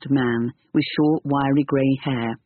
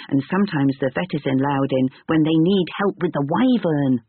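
put-on young boy voice; 3 semitones higher than usual. Boy explains.

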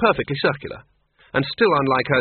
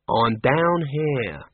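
reproachful; much slower than usual. Acted. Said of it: "said a reproachful voice".

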